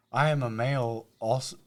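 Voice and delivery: lightly put-on public-radio read; NPR voice. Resuming the Craigslist ad, light NPR voice. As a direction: read it in a mild NPR manner. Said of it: "get my N P R voice going".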